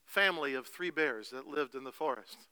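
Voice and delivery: animated fairy-tale narration; storytelling. Acted. Pastor telling the three bears to his congregation, animated storytelling. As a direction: tell it like a bedtime story.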